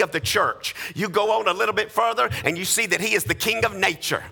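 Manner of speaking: rising, rhythmic sermon delivery; preaching. Acted. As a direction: preach it with building conviction, line after line. Preacher at full force.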